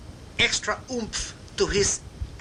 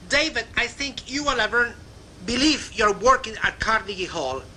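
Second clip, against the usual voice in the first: a lightly mocking jab, pitched up a little; sarcastic remark; 4 semitones higher than usual. Yvette teasing David about treating the club job as Carnegie Hall, a hint of sarcasm. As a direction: tease him about acting grand, mildly. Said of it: "in a sarcastic remark".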